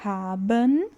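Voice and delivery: Haben ending on a clear n. Shown as a demonstration. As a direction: sound the final n in Haben. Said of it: "O N aqui é visível".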